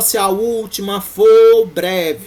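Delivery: slow, loud stress on for breve.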